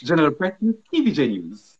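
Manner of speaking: quick, sing-song sign-off imitation; Janella's musical sign-off. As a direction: make it smooth and musical. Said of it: "musical in a kind of way".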